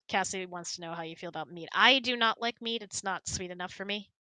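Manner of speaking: usual speaking voice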